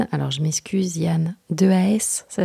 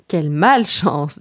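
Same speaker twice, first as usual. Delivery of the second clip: trembling with fear; 3 semitones lower, 5 dB louder than usual. Acted. Reader corrects the robbed boy's line, low understated fear. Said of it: "tremblant de peur".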